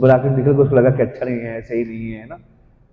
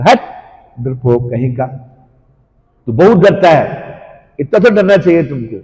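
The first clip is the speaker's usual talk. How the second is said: raised, scoffing rebuke; scornful retort; 2 semitones higher, 5 dB louder than usual. Acted. Cowherd boy mocking his fearful friend, scornful. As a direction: shove the coward's worry aside.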